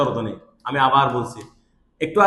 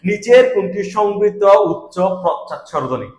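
quiz question voice; 2 semitones higher, 3 dB louder, slower than usual. Shown as a demonstration. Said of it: "তোমাকে প্রশ্নটা কিরকম করবে দেখো".

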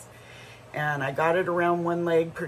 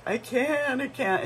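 put-on crying child; 9 semitones higher than usual. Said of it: "shaking and crying".

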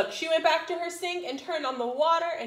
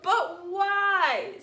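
cartoon princess; 6 semitones higher, 4 dB louder than usual. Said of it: "said the little princess".

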